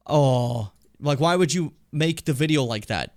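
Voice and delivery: usual speaking voice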